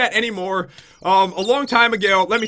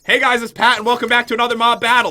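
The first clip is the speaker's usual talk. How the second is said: louder, fast hammed-up YouTuber intro; mom mocking intro; 2 semitones higher, 5 dB louder than usual. Mom teasing her son's intro, hammed-up and fast. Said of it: "She's like".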